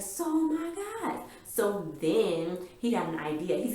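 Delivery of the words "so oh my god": high, slow, drawn-out awe; swooning over a TV twist; stunned delight. Retold or imitated. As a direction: let the excitement stretch each word. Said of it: "I was like".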